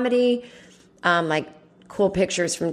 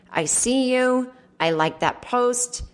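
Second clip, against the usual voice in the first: slow, gentle little nod; quiet and nice; 5 semitones higher, slower than usual. Retold or imitated. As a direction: say it like a kind quiet wink. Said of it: "a nice, quiet, like".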